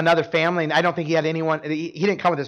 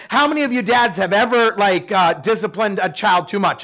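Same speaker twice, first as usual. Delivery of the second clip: playful question to the room, slightly louder; joking question; 4 dB louder than usual. Retold or imitated. Pastor teasing the dads in the congregation, playful. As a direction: tease the dads in the pews with a grin. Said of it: "then I'll joke".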